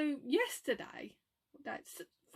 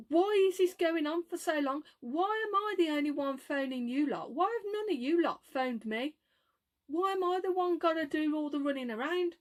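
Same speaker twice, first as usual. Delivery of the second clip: mildly exasperated retold rant. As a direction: re-enact a complaint, pressing each question. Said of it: "So I started off getting in a rant".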